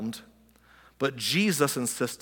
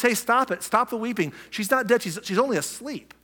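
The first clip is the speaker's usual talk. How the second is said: lightly acted, higher-pitched call to stop; a mild, raised-pitch interjection as Jesus; Jesus interrupting mourners; 7 semitones higher than usual. Jesus walks in on the wailers, lightly acted interruption.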